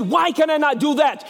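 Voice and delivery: amateur movie-hero Scots; Scottish accent. Acted. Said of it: "It's not bad for a redneck".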